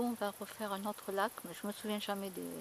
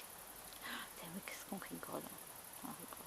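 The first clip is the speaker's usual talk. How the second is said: unvoiced whisper, laughing softly; whispered aside; 5 semitones lower, 17 dB quieter than usual. Real, not acted. Vlogger to viewers, a giggling whisper. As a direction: share the joke in a hush.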